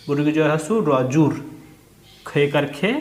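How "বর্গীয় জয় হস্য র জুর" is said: spelled parts run together into জুর; letters blended. Shown as a demonstration. Teacher shows pupils র pulled onto জু, blended জুর. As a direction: spell it, then pull র onto জু as one জুর. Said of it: "টেনে পড়তে হবে".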